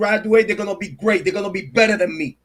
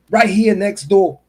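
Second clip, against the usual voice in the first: "Right here next door" slowed, each word weighted; emphatic repeat; 3 dB louder than usual. Real, not acted. Warning that the temple is close by, "Right here next door" slow and emphatic. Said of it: "I'ma repeat again".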